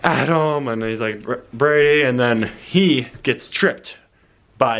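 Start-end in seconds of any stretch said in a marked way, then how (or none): 0.0-0.7 calling out. Retold or imitated. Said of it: "I'm yelling his name". 1.2-2.0 calling out. Retold or imitated. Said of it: "He's yelling my name".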